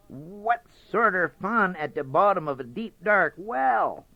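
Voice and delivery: high, faltering fox voice; hesitant Brer Fox. Acted. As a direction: stammer it out, curious fox.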